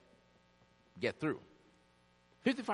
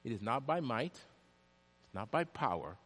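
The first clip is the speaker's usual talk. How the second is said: softer and lower, fading reverently; solemn scripture quote; 6 semitones lower, 5 dB quieter than usual. Acted. Preacher quoting scripture to the congregation, solemn and fading. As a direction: let the verse settle quietly.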